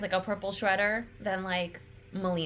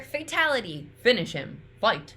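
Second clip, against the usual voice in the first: lightly voiced announcer calls, louder; Shao Kahn announcer lines; 4 dB louder than usual. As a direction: call them out like the fight announcer. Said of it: "All those lines from Shao Kahn".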